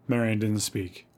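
usual speaking voice

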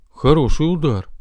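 understated rueful remark; sad. Acted. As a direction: say it with mild regret. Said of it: "грустно произнёс Санта". (грустновато)

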